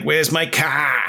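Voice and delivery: slow, lightly voiced movie police chief; a hint of the Jaws police chief; Chief Brody impression. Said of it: "I was doing Chief Brody from Jaws".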